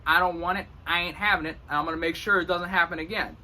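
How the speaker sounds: firm demo, pitched a bit up; certain, bossy. Shown as a demonstration. Leo about someone messing with the wall, bossy certainty. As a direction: lay down the law. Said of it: "This is how Leos communicate".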